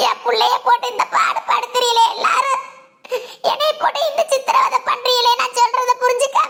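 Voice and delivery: crying, hurt mother's protest; tearful complaint. Acted. Mother protesting to family over her daughter, tearful. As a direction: plead through sobs. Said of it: "இப்ப ஏன் அழுகுற".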